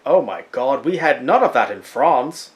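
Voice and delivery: lightly mocked French accent; French accent, badly put on. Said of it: "if you think my French accent is bad".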